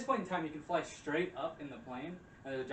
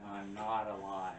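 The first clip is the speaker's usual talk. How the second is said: lower, very slow deadpan ghost; ghostly reply; 5 semitones lower, much slower than usual. Retold or imitated. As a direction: drag it out eerily. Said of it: "And then she's like".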